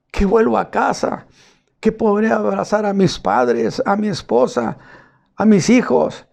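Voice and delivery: a lightly voiced, excited healed leper; joyful healed leper. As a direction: speak as the healed man bursting with joy. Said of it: "el hombre volteó y me diría".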